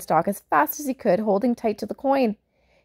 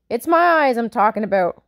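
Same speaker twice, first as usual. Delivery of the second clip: mock giant roar, louder; 2 semitones higher, 6 dB louder than usual. Giant roars at Jim about his eyes, loud mock roar. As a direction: boom it out as the giant. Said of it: "roared the giant".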